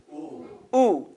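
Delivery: Ooh with lips pushed together; rounded oo. Shown as a demonstration. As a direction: model a tight, rounded Ooh. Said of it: "Everybody say oo".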